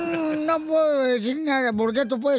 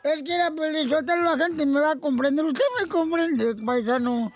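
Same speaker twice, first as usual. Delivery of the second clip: put-on drunk crying; 3 semitones higher than usual. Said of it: "¿Por qué está borracho y todo llorando?".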